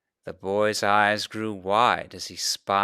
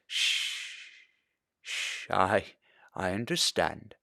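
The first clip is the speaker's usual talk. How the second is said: soft shushing whisper; quiet the child gently; hushing; 6 dB quieter, slower than usual. A narrator's reading. Father hushes the boy.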